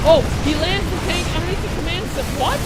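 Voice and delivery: high, excited disbelief; can't believe the landing; amazed. Real, not acted. Caster reacts to a weird landing.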